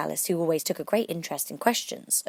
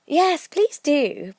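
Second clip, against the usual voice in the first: slow, drawn-out plea; pleading; 10 semitones higher, 9 dB louder, much slower than usual. A narrator's reading. Alice pleading with the Dormouse for a story. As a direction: beg them sweetly to go on. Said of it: "pleaded Alice".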